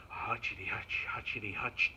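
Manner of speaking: put-on low, rhythmic chant of an old woman's steps; trudging grandma. Grandma going to find her family, trudging chant. Grandma hobbling along, acted.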